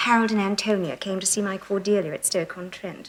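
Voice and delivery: put-on lightly posh Surrey accent, name-dropping; breezy well-bred Surrey accent; casual Surrey accent for dropping names; Surrey girl accent. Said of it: "learnt to do the accent of a girl from Surrey".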